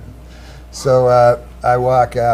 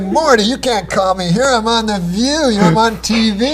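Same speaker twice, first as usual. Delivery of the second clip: lightly put-on Jewish accent, pitched higher, kvetching at the agent; a hammed-up Jewish New Yorker, higher, protesting the call; crazy Jewish accent; 8 semitones higher than usual. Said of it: "I had this crazy Jewish accent in the story".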